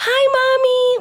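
put-on little girl voice, very high.

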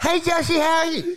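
high-pitched, hollered yell. Complaining to josh about a filming setup, retelling a yell. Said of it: "yelling like this".

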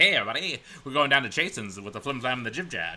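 put-on vintage, old-time radio announcer voice with patter. Speaker talking about old radio plays does a line in a 1920s radio-play voice. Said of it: "radio play of something that was funny in, in nineteen twenty five".

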